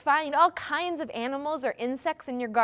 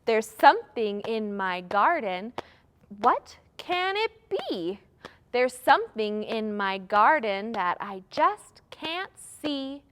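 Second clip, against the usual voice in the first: put-on children's rhyme. Shown as a demonstration. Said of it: "Let's do another one".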